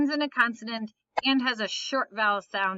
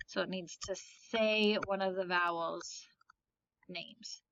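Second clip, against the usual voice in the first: whisper; 3 semitones lower, 8 dB quieter than usual. Real, not acted. Teacher trails into a whisper.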